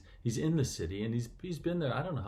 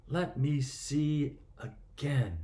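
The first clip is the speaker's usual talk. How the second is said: slow, half-whispered request; hushed plea; much slower than usual. Retold or imitated. Blind man asking Jesus for sight, retold as slow hushed plea. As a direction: voice the plea slowly, nearly whispering.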